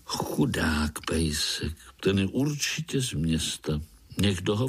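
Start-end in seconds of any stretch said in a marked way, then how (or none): 0.0-1.7 whispered pity. A narrator's reading. Strýček Sekáč povídal.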